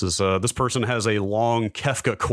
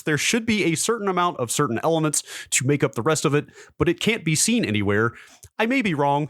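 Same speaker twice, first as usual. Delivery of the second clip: put-on higher, earnest teen voice reading his old post; his sixteen-year-old self; 7 semitones higher than usual. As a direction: play up a know-it-all teenager, pitched higher. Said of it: "again, at the age of sixteen".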